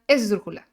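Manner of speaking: "esdrújula" said loud and emphatic; stress shift demo. Shown as a demonstration. Teacher repeating the antepenultimate example, "esdrújula" stressed emphatically. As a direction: punch "esdrújula" early in the word. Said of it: "antepenúltima".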